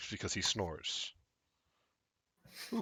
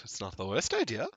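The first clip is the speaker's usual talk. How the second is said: mysterious woman guest; 4 semitones higher than usual. Acted.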